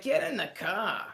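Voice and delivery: loud, slow, firm command; firm call. Retold or imitated. Coworkers order him into the car, loud and firm. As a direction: tell him to get in now.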